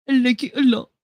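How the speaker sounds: lifting the repeat up with delight; brighter repeat. Shown as a demonstration.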